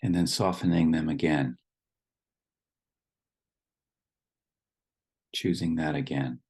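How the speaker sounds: calm instructions with long pauses between phrases; guided meditation. Real, not acted. Leading the group to settle in their seats, guided meditation. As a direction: guide them gently into the body, leaving long silences.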